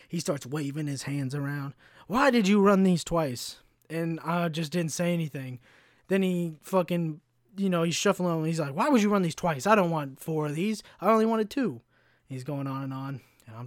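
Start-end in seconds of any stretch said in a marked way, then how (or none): 2.1-3.6 mock angry yell, drawn out and higher; stretched-out, exasperated demand; retold freak-out. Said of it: "he freaks out again". 8.7-11.8 mildly mocking, higher-pitched complaint; lightly exaggerated angry griping; retold freak-out. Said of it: "he freaks out again".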